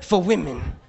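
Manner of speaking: mock French perfume pitch; a touch of French salesgirl; fake French. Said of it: "She's like".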